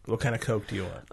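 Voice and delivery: put-on Atlanta accent. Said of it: "Then it's Coke".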